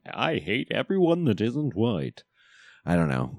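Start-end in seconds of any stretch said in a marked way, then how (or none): 0.1-2.2 mock Southern racist. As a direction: voice a bigot with a Southern accent. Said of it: "talking in Southern accents".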